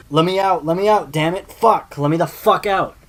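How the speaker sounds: high, loud desperate shout; screaming. A narrator's reading. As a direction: scream to be let out from behind a locked door. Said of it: "finally he starts screaming".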